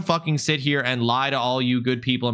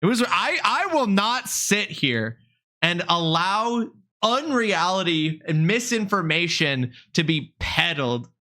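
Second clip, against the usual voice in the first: mock indignation; 3 semitones higher than usual.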